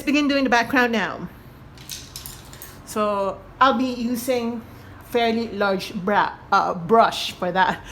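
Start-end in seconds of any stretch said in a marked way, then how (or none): 2.9-7.8 slightly awkward speech after braces; talking without retainers, a bit clumsy; braces just removed. Real, not acted. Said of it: "Sorry guys, I just had my braces removed".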